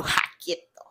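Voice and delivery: breathy, hushed startled stop; a quick hushed warning to back off; retold rebuff. She fends off his first kiss, hushed rebuff.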